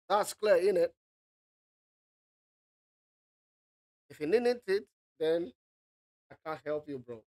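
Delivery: a light hint of a northern British accent. Teacher borrows a northern British accent to tease students. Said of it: "borrow an accent from our brothers up north".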